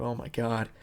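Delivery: hammed-up suspense, climbing high; mock mounting dread. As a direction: build it up like the scene is about to blow. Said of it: "You're like".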